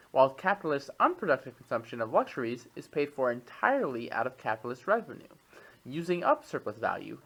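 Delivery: measured expository read-aloud, crisp phrase by phrase. Acted. Podcast host reads an economics text to co-host, reading aloud. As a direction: read it out like a written treatise.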